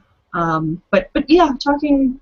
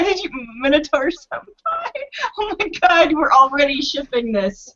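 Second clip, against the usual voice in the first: squealing excitement; 4 semitones higher than usual. Real, not acted. Gleeful teasing about shipping.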